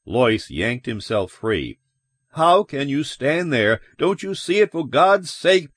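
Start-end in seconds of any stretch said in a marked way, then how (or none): 2.3-5.7 high, exasperated plea; agitated, raised-voice demand; frantic protest. A narrator's reading. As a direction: beg them to look. Lois pleading with unbelieving bystanders.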